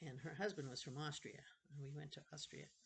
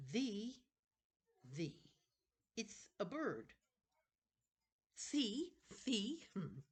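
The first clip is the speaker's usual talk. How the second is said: put-on higher, eager young boy showing his bird; a boy proud of his paper crane; lightly raised young boy voice; boy's voice; 8 semitones higher, 5 dB louder, much slower than usual. Colin voiced, child figure.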